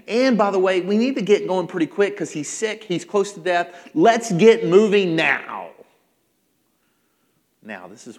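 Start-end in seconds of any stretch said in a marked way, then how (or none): 0.1-5.7 raised voice, pushing to hurry; insistent father taking charge; urgent demand. Acted. Father urges Jesus to hurry.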